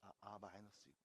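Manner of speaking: low, very soft muttering; sheepish grumble. Real, not acted. Teacher caught in a slip grumbles while fixing it, low sheepish mutter. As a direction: mumble a defensive complaint under your breath.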